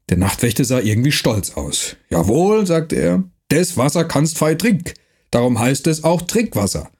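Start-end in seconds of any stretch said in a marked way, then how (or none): 2.1-6.9 rough dialect voice, lightly done; gruff Franconian watchman. Acted. Night watchman threatening the stranger, gruff dialect. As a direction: bark it like a mercenary guard.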